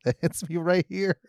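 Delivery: really feeling it; excited. Retold or imitated. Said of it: "I was like".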